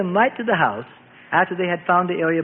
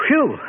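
relieved whew; 6 semitones higher, 3 dB louder than usual. A narrator's reading. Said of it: "as he shook his head".

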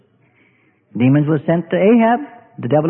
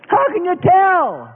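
high, slow whiny voice; slow high whining plea; impatient believer; 9 semitones higher, slower than usual. Acted. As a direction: drag it out pleadingly.

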